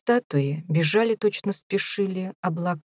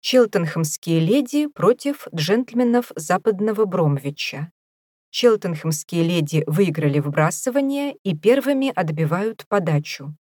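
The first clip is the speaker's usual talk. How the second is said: announcer voice. Acted. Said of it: "возвестил голос".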